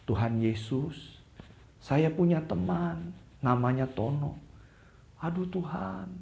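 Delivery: soft, lifted praying voice; earnest prayer. A narrator's reading. Anton prays to God for his friend Tono, soft earnest prayer. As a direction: pray gently for a friend, soft and pleading. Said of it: "Lalu dia berdoa kepada Tuhan".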